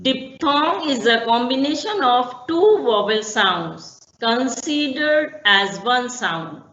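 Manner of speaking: definition read slowly, word by word; teacher dictating the definition; slow dictation. Shown as a demonstration. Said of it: "अब जैसे".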